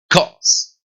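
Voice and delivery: "Cause" as kos, firm k; "Cause" as one English syllable; English hard C. Shown as a demonstration. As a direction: model "Cause" alone with a long final s. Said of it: "causa en inglés se dice cause".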